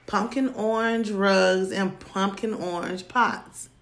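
a hint of a fussy man gushing over rugs; mocking New Yorker. Quoting the New Yorker's rug plans, lightly mocking. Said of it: "he was like".

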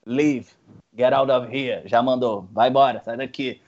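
ordem grave e seca; policial grosso. Retold or imitated. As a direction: expulsa eles, grave. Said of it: "Aí ele". (policial expulsando os brasileiros, grave e seco)

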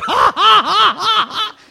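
loud, high mock belly laugh; imitated laughter. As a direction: act out the Father laughing heartily. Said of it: "he's also like".

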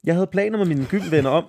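high, tight voice on a huge breath; speaking on an over-full breath; lungs overfilled with air. Real, not acted. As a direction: gulp in too much air, then start reading. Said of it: "jeg tager luft ind her".

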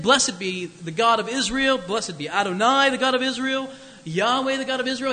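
joyful praise. Retold or imitated. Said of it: "begins with joyful praise".

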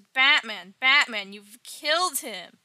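loud, mock-distraught sidekick; upset outcry. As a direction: cry out in hammed-up dismay, dragging the last words. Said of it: "Robin gets really upset by this".

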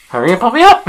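high, loud holler up from below; urgent call for help. Acted. Stuck character to friends at the top, shouting urgently. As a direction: yell it up the well, voice pitched high.

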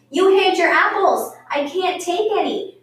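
put-on child's angry protest. A narrator's reading. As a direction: complain loudly like a cheated kid. Children quarrel over hidden apples.

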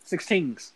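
put-on "Sixteens" with "things" turned into "teens"; Toronto slang pronunciation. Shown as a demonstration. Answering "sixteen what?", imitated Toronto slang "Sixteens". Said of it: "they say teens".

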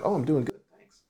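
imitating someone brightening, pitch lifted; perking up. Drive-through worker asked how they're doing, perking up. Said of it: "they, like, perk up".

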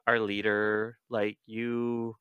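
tender, halting reassurance; hesitant, soft, caring voice; Cassie. Acted. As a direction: gently offer a way out, softly. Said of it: "touching moment between Cassie and Jake".

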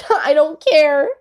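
laughing. Real, not acted.

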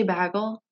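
"bagel" with a short A, as BAG-ul; mispronounced bagel. Shown as a demonstration. Friend checking how the other talks, "bagel" as BAG-ul. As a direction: say "bagel" to rhyme with haggle. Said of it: "Do you say bagel?".

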